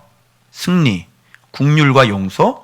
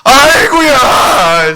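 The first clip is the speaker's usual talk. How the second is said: very slow, high, aching "아이고야"; father marvelling, voice stretched; drawn-out moved sigh; 11 semitones higher, 7 dB louder, much slower than usual. Acted.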